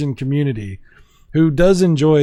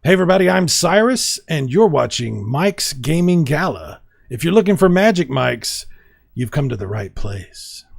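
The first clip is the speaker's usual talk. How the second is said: intro read, as Cyrus. Shown as a demonstration. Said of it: "Or we could do".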